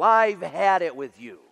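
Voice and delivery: slow, loud, fed-up warning; angry dad. Retold or imitated. Father fed up with the stubborn mule, slow loud anger. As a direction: lay down the law, slowly. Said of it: "and he says to the mule".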